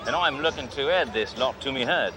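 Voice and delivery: lightly put-on Aussie outback dealer; fake Australian accent. Cop posing as a rich dealer to the salesman, fake Australian accent. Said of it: "Name's Crocodile Bruce".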